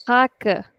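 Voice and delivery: raca as HAA-ka with a short second syllable; Portuguese stress, leaning long on the start of "raca"; stretched first syllable. Shown as a demonstration. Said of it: "I'm stretching the first two letters".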